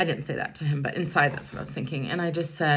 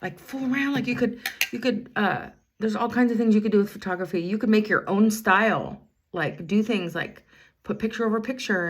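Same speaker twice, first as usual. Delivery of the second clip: excited encouragement; 5 semitones higher, 4 dB louder than usual. Retold or imitated. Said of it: "and I'm like".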